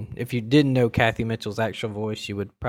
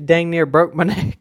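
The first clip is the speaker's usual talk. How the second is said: mock pillow salesman; 6 semitones higher, 7 dB louder than usual. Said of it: "makes fun of the guy that sells those My Pillows".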